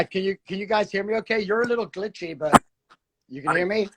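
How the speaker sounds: wobbly warbling call audio; choppy connection, voice breaking up; glitchy call audio. Real, not acted. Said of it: "You're glitching out a little bit".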